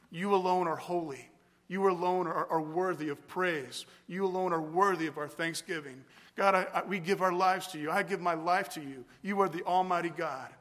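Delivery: modelling personal prayer; spoken prayer demo. Shown as a demonstration. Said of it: "but something like this".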